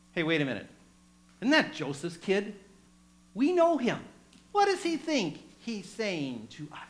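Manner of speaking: skeptical, wary challenge; suspicious. Acted. Congregation doubting Joseph's kid, suspicious and skeptical. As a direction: doubt him, a bit offended. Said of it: "said it like this".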